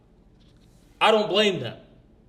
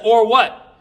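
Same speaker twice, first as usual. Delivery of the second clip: retold taunt; 4 semitones higher, 7 dB louder than usual. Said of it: "I said".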